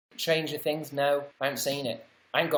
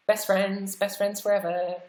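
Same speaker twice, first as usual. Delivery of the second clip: sing-song excited; 5 semitones higher than usual. Pretend. Gushing to a chat friend.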